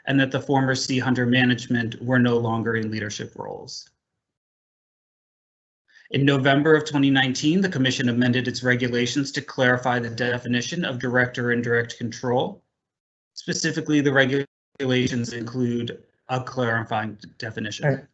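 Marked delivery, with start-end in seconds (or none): 6.1-18.1 breaking-up internet audio; choppy, glitching video-call sound; glitchy robotic call. Real, not acted. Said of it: "Your, your, your audio is breaking up".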